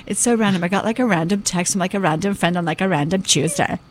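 lightly imitated millennial daughter; a hint of her "so random" American daughter. Mother quoting her daughter's overuse of random, lightly mimicked millennial. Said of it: "That's how she speaks".

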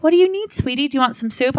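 high, sugary mom voice; sweet mom. Retold or imitated. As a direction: coo it sweetly. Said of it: "she's like".

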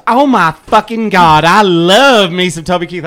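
loud, high burst of fan excitement; ecstatic fan. Retold or imitated. Radio caller gushing to the DJ about her idol, ecstatic. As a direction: gush at full volume, drawing out the swear.

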